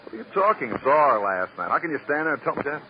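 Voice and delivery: high, stunned outburst; can't believe she's dead; shocked disbelief. Acted. Waiter hearing of the death from the cop, shocked high outburst.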